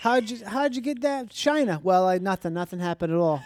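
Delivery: lightly acted Boston guy making excuses; defensive Boston accent. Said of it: "you said you couldn't do Boston".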